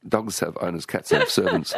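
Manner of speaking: laughing through the punchline; joking, breaking into a laugh; amused quip. Real, not acted. Jokes, host laughs along.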